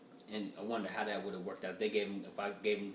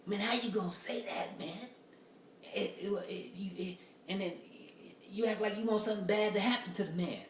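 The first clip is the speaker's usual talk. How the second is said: higher mock indignant dude; angry Facebook commenter; 9 semitones higher than usual. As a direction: imitate an outraged commenter accusing him. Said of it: "Some black folks get mad on Facebook".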